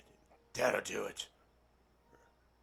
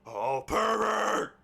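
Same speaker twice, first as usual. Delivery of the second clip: slow, drawn-out cry of disgust; exaggerated disgusted exclamation; mock outrage; 8 semitones higher, 6 dB louder, much slower than usual. Real, not acted. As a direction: stretch it out, scandalised. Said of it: "oh, he's a meat beater".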